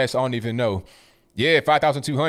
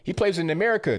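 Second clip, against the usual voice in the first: pitched way up, mocking what people say; mocking quote; 7 semitones higher than usual. Mocking critics who defend the player, voice pitched way up. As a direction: sing it up high like a whiny excuse. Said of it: "Man, people say".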